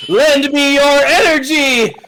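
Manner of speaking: high, slow anime battle cry; anime hero shout. Pretend. Anime hero spirit bomb call.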